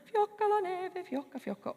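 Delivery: lilting, falling like snowflakes; graceful falling. Shown as a demonstration. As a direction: let fiocca float down like snow. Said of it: "falling gracefully to the ground".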